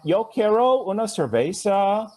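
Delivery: mock American-accent Spanish, pitched well up; clumsy tourist Spanish. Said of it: "Instead of".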